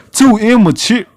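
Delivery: scoffing echo, then laugh; incredulous laughing scoff; mocking laugh. Real, not acted. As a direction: repeat it back in scorn. Echoes GM insult mockingly.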